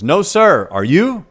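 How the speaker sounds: high and loud, quick cheeky retort; loud, high smart-aleck reply; cheeky comeback. Retold or imitated. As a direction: fire it back without missing a beat. Brother's comeback to vice principal.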